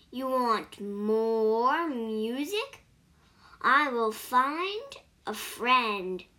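a cricket drawing its words out slowly; eager little cricket, slow and pleased. Acted.

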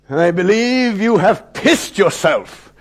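stern headmaster passing sentence; pitiless calm. Acted. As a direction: pronounce judgment firmly, without any sympathy. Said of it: "he said with a calm devoid of anything remotely resembling human understanding".

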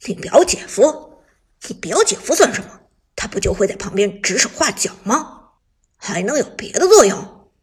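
loud, scoffing disdain; mock the idea; scornful. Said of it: "许旺一脸不屑地说".

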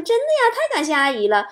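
high-pitched grateful gush; acted-out woman, happily thanking; delighted. Woman thanking an auntie for a dog, delighted. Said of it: "美女好开心啊".

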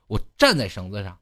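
ordinary talk

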